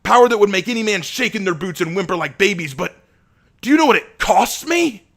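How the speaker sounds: anguished shouting lament. Acted. Asher lamenting his thirst to Abraham, anguished shouting. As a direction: cry out your torment.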